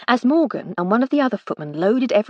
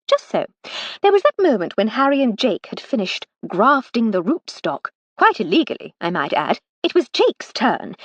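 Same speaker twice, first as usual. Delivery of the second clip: Lady Hardcastle, caught out; 4 semitones higher than usual. Acted. Lady Hardcastle caught out over the torn dress, higher, mock innocent. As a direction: feign surprise at the scolding.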